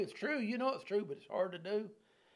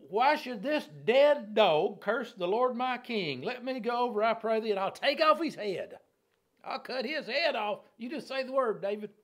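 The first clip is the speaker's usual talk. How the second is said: high, loud, fired-up protest; indignant outburst; 6 semitones higher, 7 dB louder than usual. Acted. Loyal man asking his king to let him behead the curser, heated and loud. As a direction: plead hotly for leave to strike. Abishai's angry offer to behead Shimei.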